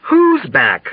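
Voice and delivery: high, alarmed question; startled cry from across the room; shouted question. A narrator's reading. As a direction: call it out in confusion. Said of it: "shouted someone else".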